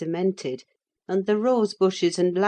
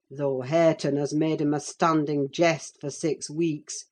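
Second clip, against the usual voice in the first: lightly lowered, measured man's voice; a hint of a stern accuser; overbearing rider. Rider accusing the young lady of fickleness, lightly stern.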